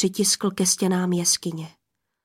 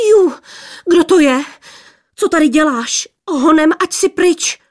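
high, loud squeal of startled maidens; squealing girls; 7 semitones higher, 7 dB louder than usual. A narrator's reading. Startled maidens squealing at the stranger. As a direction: squeal at the intruder. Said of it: "Pištěli jedna přes druhou".

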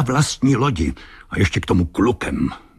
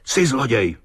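shouting; 8 semitones higher than usual. A narrator's reading. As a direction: cry out the accusation. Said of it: "křikl znovu kapitán". (vykřiknuté obvinění)

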